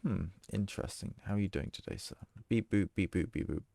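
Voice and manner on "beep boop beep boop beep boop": robot voice. Pretend. Robot noises to a character.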